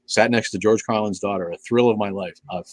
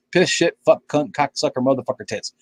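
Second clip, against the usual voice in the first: Carlin impression; 4 semitones higher than usual. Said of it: "I remember it well".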